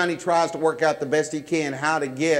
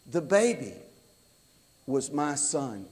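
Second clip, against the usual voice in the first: softer and lower, held back; quiet reveal; 3 semitones lower, 6 dB quieter than usual. Retold or imitated. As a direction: let it land quietly. Worker's quiet reveal to the deputy.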